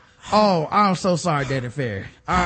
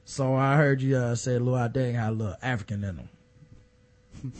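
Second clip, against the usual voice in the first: mock Jim Brown; 8 semitones lower, 5 dB quieter than usual. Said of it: "he just read what you been doing".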